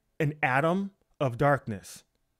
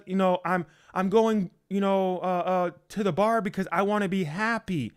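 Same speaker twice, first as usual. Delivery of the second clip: quick, higher, whiny excuses; mock excuse-making; 3 semitones higher, faster than usual. Preacher mocking people who blame their feelings, quick mock whine. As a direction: rattle off excuses like a fool. Mocking someone led by emotion.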